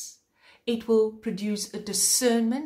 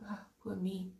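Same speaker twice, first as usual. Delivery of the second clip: mock self-pity; 10 dB quieter than usual. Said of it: "It's like".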